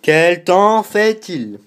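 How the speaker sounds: very slow, high, loud question to Siri; slow, loud repeat. Real, not acted. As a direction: spell it out slowly so the phone understands. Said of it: "je vais lui redemander".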